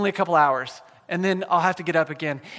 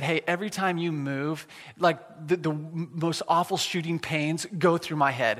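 softly retelling her words, lower and softer; hushed quote of wife in pain; 5 semitones lower, 7 dB quieter than usual. Retold or imitated. Pastor retelling his wife's words at night, hushed. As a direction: quietly voice the wife's pained complaint in bed.

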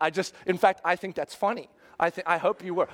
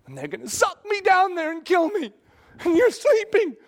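much higher, much louder panicked yelling; frantic outraged shout; 12 semitones higher, 6 dB louder than usual. Retold or imitated. Preacher playing a disciple shouting back at Jesus, frantic. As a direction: rant like a terrified disciple. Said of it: "and I'd say".

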